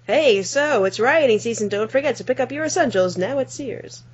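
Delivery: upbeat, high store ad voice; mock department store ad announcing rioting season; ad announcer voice. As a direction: pitch it like a cheerful holiday ad. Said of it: "Sears would be like".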